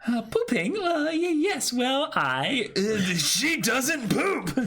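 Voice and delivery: high, flustered stammer. Acted. Camille flustered by the poop question, high stammer. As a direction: stumble for an answer.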